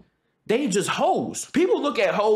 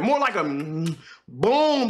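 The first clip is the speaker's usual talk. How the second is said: slow demo; 3 semitones lower, much slower than usual. Shown as a demonstration. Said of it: "It's more so like a boom".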